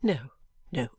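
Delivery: calm, unruffled refusal; calm, clear. A narrator's reading. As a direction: dismiss it with mild composure. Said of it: "in a calm, clear voice".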